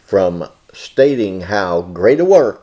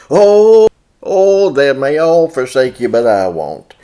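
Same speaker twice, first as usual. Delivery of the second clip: boastful Peter; 3 semitones higher, 6 dB louder than usual. Acted. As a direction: swear loyalty like an overeager soldier. Peter boasting loyalty to Jesus.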